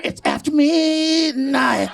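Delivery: slow, drawn-out creepy announcement; ominous slow mock voice; eerie slow voice. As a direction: stretch it out like a late-night warning. Spooky quote heard late at night.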